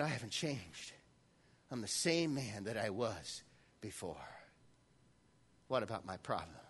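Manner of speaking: low, soft, hesitant Moses; doubtful Moses. Acted. Preacher voicing Moses doubting God, low and soft. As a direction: let Moses sink into quiet doubt.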